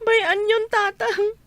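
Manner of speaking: tearful plea to a father; crying. Acted. Daughter begging her father to understand, crying.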